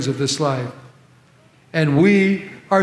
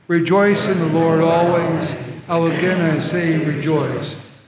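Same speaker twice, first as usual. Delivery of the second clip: leading a responsive reading. Shown as a demonstration. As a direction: set the pace for the congregation to follow. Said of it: "Would you say that with me?".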